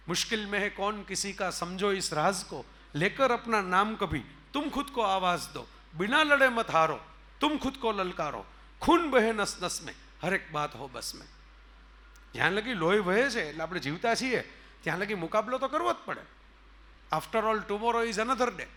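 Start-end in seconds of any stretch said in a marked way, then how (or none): 0.1-11.3 rousing verse recital. Acted. 17.1-18.7 drawn-out, deliberate English quote; slow quoted line. Acted. Speaker quoting a famous line to the audience, very slow.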